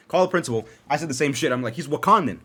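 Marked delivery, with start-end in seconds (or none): 1.7-2.4 a light put-on white guy voice, a bit louder; white dude voice. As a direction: play it like a polite white dad on the phone. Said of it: "I was doing the whole white voice".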